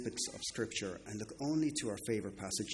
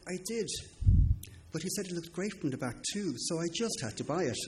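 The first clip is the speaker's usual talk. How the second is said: mock innocent wife; 8 semitones higher, 6 dB louder, faster than usual. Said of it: "And she said".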